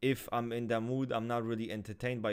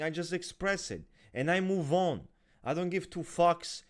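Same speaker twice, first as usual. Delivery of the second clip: ordinary talk, nothing marked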